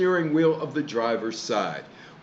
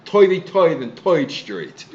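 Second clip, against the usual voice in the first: put-on Brooklyn accent. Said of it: "everybody made fun of Brooklyn".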